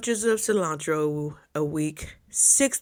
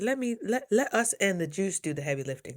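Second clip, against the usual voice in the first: reassuring coach; 2 semitones higher, 4 dB quieter than usual. Retold or imitated. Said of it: "as my coach always tells me".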